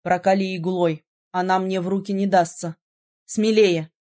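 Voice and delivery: command. A narrator's reading. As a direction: urge her on firmly. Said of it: "велел он". (низкий настойчивый приказ)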